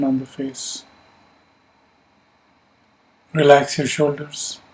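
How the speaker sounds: calm, measured meditation guidance; unhurried instructions with long pauses to let them settle; guided meditation. Real, not acted. Teacher settling a group into yoga nidra, calm guided meditation. Leads a seated breathing meditation.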